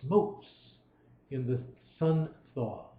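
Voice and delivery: measured, lilting recitation of verse; poem reading. Acted. Lecturer reading Coleridge to his students, measured recitation. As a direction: let each line ring out like a poem. Reads poem aloud to class.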